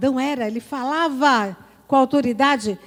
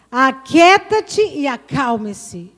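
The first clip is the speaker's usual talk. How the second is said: slow, louder rebuke to the sea; commanding rebuke; 5 dB louder, much slower than usual. Acted. Preacher voicing Jesus rebuking the sea, slow and firm. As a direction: order the sea to be still. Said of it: "Ele se levantou e disse".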